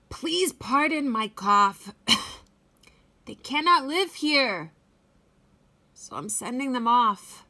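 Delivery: lightly voiced Lorax. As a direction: apologize while still coughing. Lorax coughing, sad.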